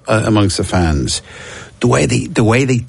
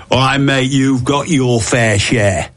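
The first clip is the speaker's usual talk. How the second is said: formal fan retort; 4 semitones higher, slower than usual. Retold or imitated. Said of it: "It's the way he said it".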